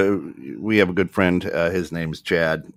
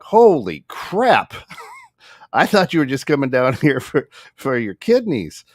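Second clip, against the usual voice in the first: mock shock; 8 semitones higher, 3 dB louder than usual. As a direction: play up the stunned reaction, half laughing. Retells his joking shock at bedside.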